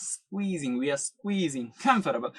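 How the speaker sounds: quiet demo of a squeezed word; softly squeezed. Shown as a demonstration. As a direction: drop the voice and swallow the middle syllable. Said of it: "എന്താക്കുകയാണ്".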